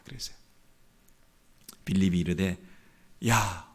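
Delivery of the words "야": frustrated, half-whispered urging; mild exasperation. Retold or imitated. Philip pressing doubtful Nathanael to come, exasperated. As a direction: urge a stubborn friend, fed up. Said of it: "하도 답답해가지고".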